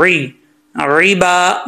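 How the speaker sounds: ain with zer as throaty "'i", heard in रिबा; clear ain. Shown as a demonstration. Teacher drilling ain, careful recitation. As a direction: open रिबा from the throat, long "baa". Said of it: "हमज़ा नहीं पढ़ना सख्ती के साथ".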